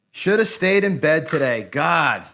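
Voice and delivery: a frustrated outburst of regret; real exasperation. Real, not acted. Gambler regretting a lost bankroll, exasperated. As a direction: groan it out, fed up with the day. Regrets playing after big loss.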